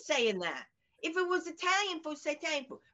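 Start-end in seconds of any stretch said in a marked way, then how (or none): 1.0-2.8 put-on higher, indignant kid voice; a hint of a scolding daughter; mimicking the daughter. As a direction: play the outraged teenager.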